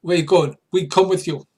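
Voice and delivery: high, loud creature warrior; Morricanth voice. Acted. Morricanth objects to being left, high and loud. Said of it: "what accent I'm using for the, uh, Morricanth".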